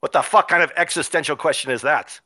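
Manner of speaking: indignant dwarf in mock Scottish brogue; lightly put-on Scottish, outraged; bad Scottish accent. Murder hobo boss scoffing at the question in Scottish accent. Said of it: "bad Scottish accent".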